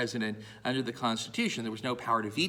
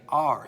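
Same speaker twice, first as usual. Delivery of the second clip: "are" louder and set apart; stress on "are"; 5 dB louder than usual. Shown as a demonstration. Teacher correcting the verb for a plural, stressed "are". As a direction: hit the word "are". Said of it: "putting the emphasis on the word states".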